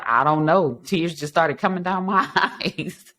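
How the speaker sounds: mock bewildered mother, laughing; retold tearful mother, amused. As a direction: laugh through the end of the quote.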